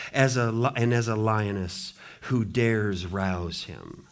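slow, solemn reading of a blessing; solemn measured Bible reading; scripture reading. Acted. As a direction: proclaim it like an old patriarch's blessing.

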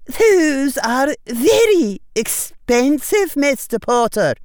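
high, loud, slow, stern warning; a strict teacher refusing, slowly; stern witch. A narrator's reading. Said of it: "face grew stern".

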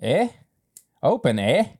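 a light Canadian "Open, eh?" with a rising "eh". Pretend. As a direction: lightly put on the Canadian accent, "eh" rises up. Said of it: "I have to say, eh".

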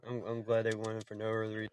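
cutting out over the call; bad connection. Real, not acted. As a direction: voice dropping out on a bad line. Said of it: "I think I lost you".

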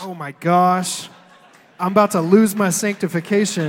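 loud, hammed-up indignation; mock exasperation. Pastor pretending to be outraged at the burger insult, mock exasperation. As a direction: play it scandalised for laughs.

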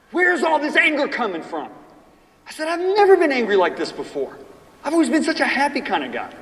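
exasperated retold prayer; pleading why this anger; anguished plea. Retold desperate plea to God.

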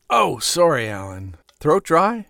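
smooth gentleman voice. Acted. Mister White voice.

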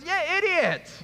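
high, loud imitated shout; mock angry yell. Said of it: "she yells".

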